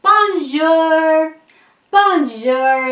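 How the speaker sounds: loud, high calling out; sung-out shout with long vowels; shouted greeting. A narrator's reading. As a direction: call out gaily to someone riding past. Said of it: "I wave and shout".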